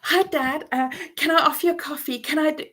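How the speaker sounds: put-on high, quick, hopeful child's voice offering coffee; eager young child. A daughter greeting her ignoring father, high and eager. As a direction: play the small kid hoping to be noticed. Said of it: "And I would go".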